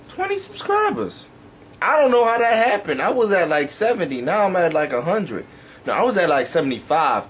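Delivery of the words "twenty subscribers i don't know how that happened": surprised. Real, not acted. Surprised at subscriber jump.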